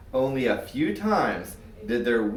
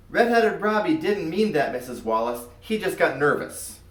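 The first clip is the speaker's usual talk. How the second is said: put-on kid pleading; 4 semitones higher than usual. Kid covering for friend.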